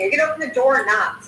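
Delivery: rapid-fire, mildly rude demand; quick, aggressive mock bark; retold barking. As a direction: imitate an impatient cop firing off a question. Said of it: "barking at her from the beginning".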